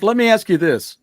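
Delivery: mocking the customer. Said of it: "You're like".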